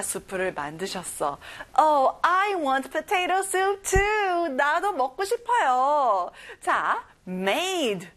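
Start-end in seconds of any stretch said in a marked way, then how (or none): 1.8-6.3 eager. Acted. Teacher reacting eagerly.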